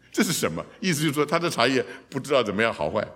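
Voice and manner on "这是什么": laughing question. Pretend. Joking about the tea shop name.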